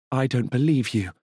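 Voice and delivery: cold high regal disbelief; disdainful queen. Acted. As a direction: dismiss him outright. Queen rejects the goblin.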